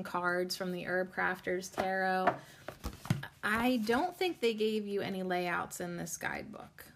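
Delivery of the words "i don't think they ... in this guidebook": whispered mutter to herself. Real, not acted. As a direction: whisper while flipping the guidebook. Muttering while reading guidebook.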